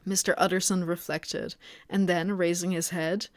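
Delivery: measured audiobook-style reading; story narration. A narrator's reading. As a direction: read the story aloud evenly. Reads the novel aloud.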